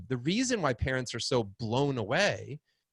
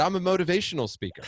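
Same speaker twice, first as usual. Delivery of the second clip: laughing; 7 semitones higher, 4 dB louder, faster than usual. Retold or imitated. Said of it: "And I said".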